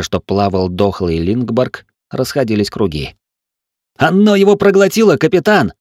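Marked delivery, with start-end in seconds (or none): 4.0-5.7 high, loud, breathless panicked cry; choking with panic. A narrator's reading. Gunner reports the monster to the captain, breathless panic. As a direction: gasp the words out in terror. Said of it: "захлёбывался стрелок".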